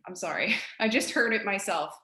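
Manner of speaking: real laugh breaking into the words; self-amused, chuckling apology. Real, not acted. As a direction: laugh at your own slip while apologizing. Laughs at her own accent slip.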